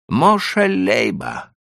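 put-on high, pleading old merchant; timid Jewish trader. A narrator's reading. Leiba names himself.

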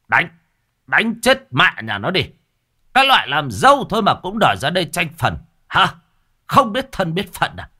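loud, high shouts urging the beating; egging on. A narrator's reading. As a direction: yell from the sidelines to hit her. Husband egging on the fight.

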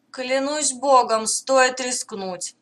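slow, scheming alien rumble; alien commander voice. Acted. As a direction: gloat like a plotting invader. Alien commander's thoughts again.

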